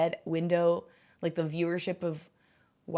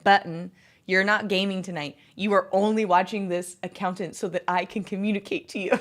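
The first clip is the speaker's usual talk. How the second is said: imitated Southern accent; 3 dB louder than usual. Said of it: "He had a really thick, like, Southern accent".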